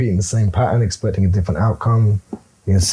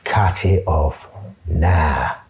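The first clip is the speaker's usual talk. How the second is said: blunt order; 5 semitones lower, much slower than usual. Retold or imitated. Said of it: "Because I'd have said".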